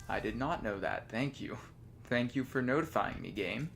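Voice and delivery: dry, quiet mock gratitude; deadpan thanks to a game; sarcastic. Real, not acted.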